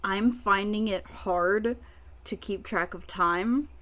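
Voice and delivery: tipsy, a little slurred. Real, not acted. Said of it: "I'm so drunk right now".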